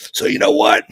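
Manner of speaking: high, brisk retold father; imitating dad's excited talk. Father explaining the backstory to his son, excited. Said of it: "he's yelling, but not in a bad way".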